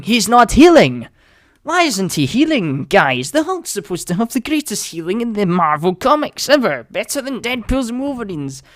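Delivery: high-pitched, incredulous outburst; exasperated disbelief. Retold or imitated. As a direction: protest in rising alarm at the screen. Acting out his alarm in cinema.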